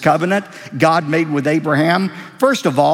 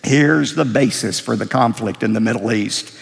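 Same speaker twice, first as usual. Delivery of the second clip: ordinary talk, nothing marked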